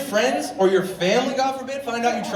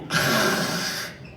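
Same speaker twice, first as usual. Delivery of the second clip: breathy unvoiced mock inhale; inhaling hit; 10 semitones lower than usual. Demonstrating a nitrous hit, voiceless inhale. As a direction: suck in a big whipped-cream hit. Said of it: "you go".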